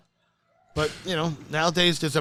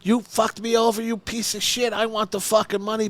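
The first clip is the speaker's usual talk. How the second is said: high mock-furious cursing; imitated angry rant; 6 semitones higher than usual. Chips berating the booker on the phone, mock fury. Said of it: "He went fucking berserk".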